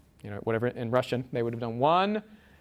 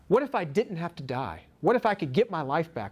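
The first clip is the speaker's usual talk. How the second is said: a man's racing thoughts, voiced higher and a little apart; inner thoughts; 5 semitones higher than usual. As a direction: let the condemned man's hope rise in your voice. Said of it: "this was in his mind".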